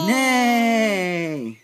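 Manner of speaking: drawn-out whinny; horse neigh. Shown as a demonstration. Parent showing a toddler the horse sound, neigh. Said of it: "What's the horse say?".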